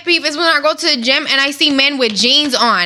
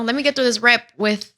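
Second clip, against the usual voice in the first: laughing; 5 semitones lower than usual. Real, not acted. Complaining while laughing.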